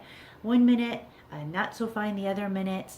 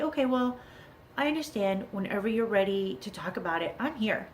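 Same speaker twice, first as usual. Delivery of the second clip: not upset. Acted. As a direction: answer as an understanding parent, without getting upset. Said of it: "without getting upset".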